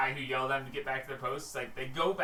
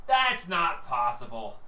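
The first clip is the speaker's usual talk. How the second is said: disbelieving guard; 7 dB louder, slower than usual. Acted. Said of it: "And he goes".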